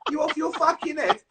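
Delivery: mock indignant friend, laughing hard; laughing, mock outrage. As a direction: act indignant while cracking up. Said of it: "I go".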